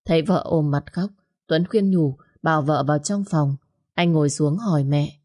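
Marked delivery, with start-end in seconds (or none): none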